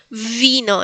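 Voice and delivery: "vino" with a buzzing initial V; vibrating V. Shown as a demonstration. Teacher gives the first example, "vino" with buzzed V. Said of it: "es como una B más vibrante".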